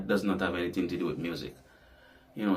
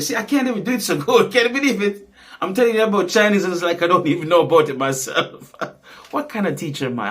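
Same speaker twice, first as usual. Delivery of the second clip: high, loud laughing protest; laughing at himself; 8 semitones higher, 7 dB louder, faster than usual. Real, not acted. Admitting to viewers he can't do it, laughing. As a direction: crack up over your own incompetence, voice shooting up. Laughing at own failed demonstration.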